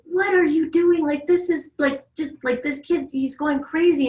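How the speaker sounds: mock the husband's frazzled disbelief; exasperated husband. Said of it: "Brian would be like".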